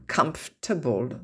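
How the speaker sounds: "Comfortable" squeezed to "KUMF-tuh-bl"; silent OR. Shown as a demonstration. Teacher correcting, "Comfortable" with silent OR. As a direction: drop the OR from "Comfortable". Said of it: "le O R, en somme, ne se prononce pas".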